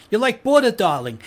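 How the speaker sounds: mock sultry flattery. Playful flattering aside.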